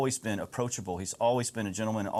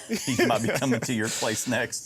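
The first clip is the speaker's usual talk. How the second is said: real chuckle running through a slower delivery; laughing tease; 4 dB louder than usual. Real, not acted. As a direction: tease them while laughing. Teasing joke, laughing.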